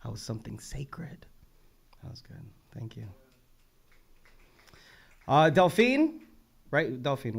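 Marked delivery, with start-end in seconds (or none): 0.0-1.3 slow, hushed poem reading; quiet, reverent recitation; poem recital. Real, not acted. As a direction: let each line sink down softly. Reads back a poet's lines.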